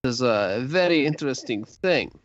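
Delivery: mock-Russian storyteller accent; put-on Russian accent. Podcaster telling co-host about the skiers, put-on Russian accent. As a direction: tell it in a comic Russian accent. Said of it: "Should I do the Russian accent".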